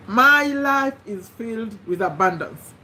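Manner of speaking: slow, deliberate affirmation; slow affirmation read. Shown as a demonstration. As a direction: dictate it slowly for writing. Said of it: "number one".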